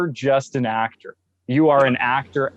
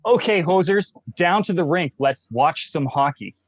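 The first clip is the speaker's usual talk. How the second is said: high, mock Canadian hockey-fan voice; Canadian accent; 5 semitones higher than usual. Shown as a demonstration. Canadian guest coaching the host in a Canadianism. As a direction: play up the Canadian stereotype. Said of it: "you wanna say".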